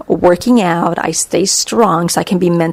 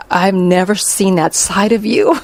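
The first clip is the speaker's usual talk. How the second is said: laughing. Retold or imitated. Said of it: "we were, like, dying laughing".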